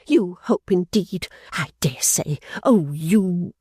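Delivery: high, sneering retort; Fanny mocking her sister; scornful sister. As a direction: spit it back with contempt. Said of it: "Fanny paused for a sufficiently strong expression".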